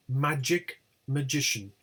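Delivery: MAGIC on MA, MAGICIAN on GI; stress shift. Shown as a demonstration. Teacher showing attracted stress, shift to GI. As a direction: move the beat from MA in Magic to GI in magician. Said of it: "They attract the stress".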